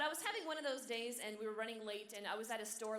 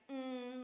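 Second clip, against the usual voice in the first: put-on little girl's "mm"; 2 semitones higher than usual. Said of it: "like that".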